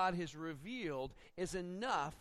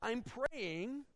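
protesting Peter; 5 semitones higher than usual. Retold or imitated. Preacher playing Peter's objection to the sheet, high and insistent. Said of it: "I mean".

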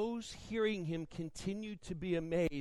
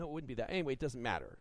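normal talking voice

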